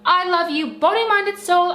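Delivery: lifted, ardent vow of love; mock passionate declaration. Partner acting out an imagined proposal, mock-passionate. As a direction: declare love as a grand pledge. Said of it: "imagine if I just waltz in like".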